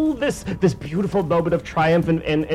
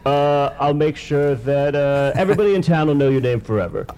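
Joe Rogan. Retold or imitated. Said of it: "just Joe Rogan. He goes like".

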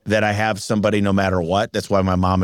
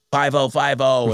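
slow, raised pitch radio call; kid on CB radio; 4 semitones higher than usual. Retold or imitated. Boy calling into a CB radio. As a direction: play at being on the radio.

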